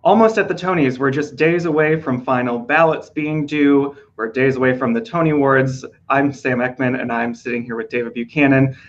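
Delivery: losing voice, hoarse and rough; hoarse from overwork, voice going. Real, not acted. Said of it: "I'm losing my voice".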